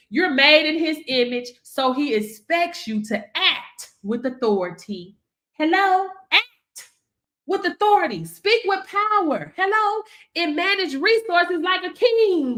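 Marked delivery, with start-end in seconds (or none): none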